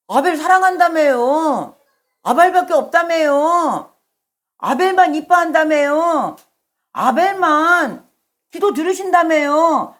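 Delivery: resentful Cain. Acted. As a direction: throw each accusation back at God, acting aggrieved. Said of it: "가인이 하나님한테 이렇게 대드는 거예요". (원망하며 높게 따지는 말투)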